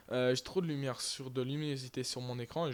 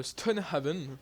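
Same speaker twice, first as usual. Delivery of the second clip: put-on English accent; 3 semitones higher, slower than usual. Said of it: "Voilà mon accent très anglais".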